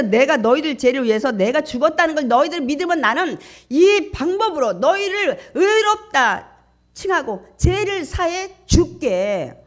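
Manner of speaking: high, loud preacher voicing God; God's solemn declaration. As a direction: proclaim forgiveness forcefully, slowing at the end. Preacher voices God promising forgiveness.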